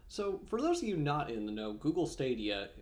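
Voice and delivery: talking with almonds in mouth; mouth full. Real, not acted. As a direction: speak around a mouthful of nuts. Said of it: "sorry, I had an almond in my mouth".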